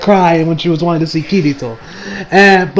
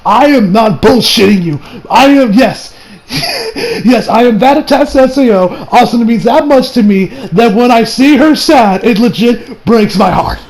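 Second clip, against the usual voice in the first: laughing insistence; 4 semitones higher than usual. Real, not acted. Emphatic confession with laughter.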